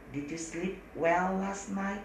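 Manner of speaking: slow careful English; slow model sentence. Shown as a demonstration. Teacher slowly models the question. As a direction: say it slowly for students. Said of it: "apakah pakai did".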